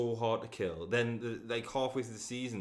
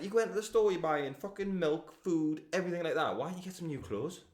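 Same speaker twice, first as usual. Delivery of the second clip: higher, exasperated rant at the characters; mock exasperation; 6 semitones higher than usual. Ranting at the TV about why they never change clothes. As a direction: scold the characters' logic. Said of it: "and I went".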